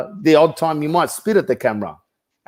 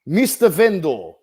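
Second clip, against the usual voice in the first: mildly raised, mock-forceful sales pitch; mock yell; 4 semitones higher than usual. Agent imitating the coach's video script to his face, mock yelling. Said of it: "And you're yelling".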